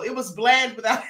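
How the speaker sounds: breaks into laughter mid-line; laughing. Real, not acted. Host cracking up while reading a viewer comment. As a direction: laugh through the words as they trail off.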